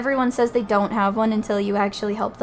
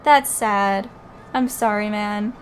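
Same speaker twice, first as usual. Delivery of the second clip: usual speaking voice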